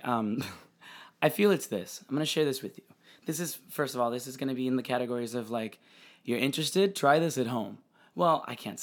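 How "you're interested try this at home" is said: sarcastic. Acted. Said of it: "just sarcastically, I said that".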